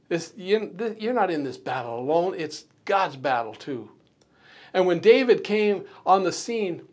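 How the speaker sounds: ordinary talk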